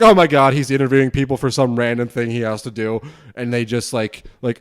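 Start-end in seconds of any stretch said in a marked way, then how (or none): 0.0-3.0 sudden loud jump into a panicked stranger; alarmed stranger. Retold or imitated. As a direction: blurt it out in alarm, loud and high.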